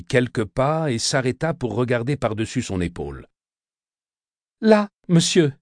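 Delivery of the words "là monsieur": put-on high, timid little boy's answer; a frightened child pointing at the grave; small voice of a scared boy. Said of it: "repris-je timidement".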